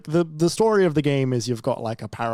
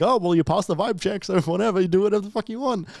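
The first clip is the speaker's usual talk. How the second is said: casual goblin voice; 6 semitones higher, faster than usual. Retold or imitated. Giant goblin lets her go.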